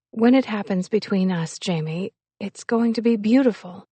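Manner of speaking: hesitant woman in love, holding off gently; a touch of earnest pleading; lightly voiced young woman. Woman putting off her impatient lover, hesitant and earnest.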